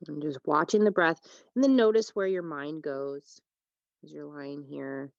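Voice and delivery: unhurried yoga teacher with long pauses; calm, spacious meditation delivery; guided relaxation. Real, not acted. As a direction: guide them into rest, phrase by phrase. Leads a breathing meditation.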